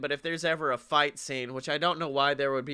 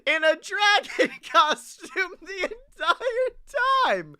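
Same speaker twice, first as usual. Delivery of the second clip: giddy excitement; 14 semitones higher, 4 dB louder than usual. Real, not acted. Still giddy about mascot.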